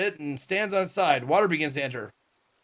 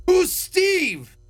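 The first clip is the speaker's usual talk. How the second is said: higher, louder baffled who's Steve; surprised question; 13 semitones higher, 4 dB louder than usual. Real, not acted. Streamer is surprised by a name they don't know, higher and louder. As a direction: blurt it out in disbelief. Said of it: "confused outburst".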